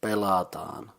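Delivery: "pelataan" said clearly with a long final aa; Finnish pronunciation demo. Shown as a demonstration. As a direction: model "pelataan" for a learner, holding the aa. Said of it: "So the word is".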